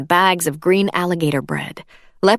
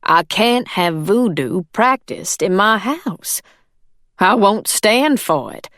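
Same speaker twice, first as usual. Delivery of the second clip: firm; 3 semitones higher, slower than usual. Acted. Employer firing maid over voodoo.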